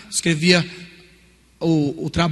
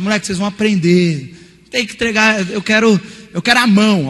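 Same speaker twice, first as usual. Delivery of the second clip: mock angry teacher; 3 semitones higher, 5 dB louder than usual.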